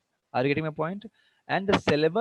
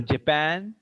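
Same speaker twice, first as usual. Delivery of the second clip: jaPAN, weak first vowel and strong pan; stress on pan. Shown as a demonstration. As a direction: lean on the second syllable of Japan. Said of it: "Here stress is on pan".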